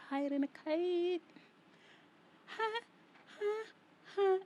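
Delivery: high, laughing joke voice; playful cackle. Acted. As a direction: cackle through the punchline.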